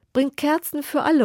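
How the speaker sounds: loud, high, joyful call to the guards; king calls out. Acted. The king calls to his guards for candles, loud and high. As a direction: call the order across the courtyard. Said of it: "ruft der König den Burgwachen zu".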